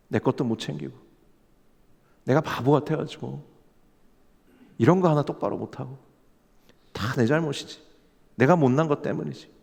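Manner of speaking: quiet self-blame. Acted. 지친 신자가 스스로를 탓하며 조용히 말하기. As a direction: murmur it like blaming yourself.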